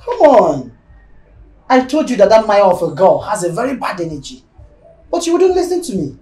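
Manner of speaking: loud, insistent reproach; exasperated scolding. Acted. Wife saying he would not listen, loud exasperated scolding.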